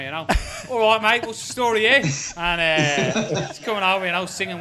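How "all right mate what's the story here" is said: mock London accent, pitched up; big Londoner. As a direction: imitate a big Londoner greeting a mate. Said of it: "big Londoner".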